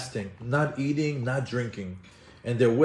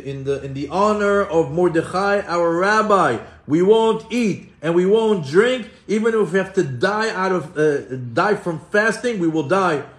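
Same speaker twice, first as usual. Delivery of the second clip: raised, emphatic retold oath; defiant vow; 4 semitones higher, 5 dB louder than usual. Children refusing their mothers' food and drink, defiant vow. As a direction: vow it firmly, a little louder. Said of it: "and they would swear".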